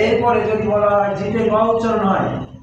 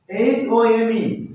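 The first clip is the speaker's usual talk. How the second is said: slow spelling out; much slower than usual. Shown as a demonstration. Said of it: "যেমন".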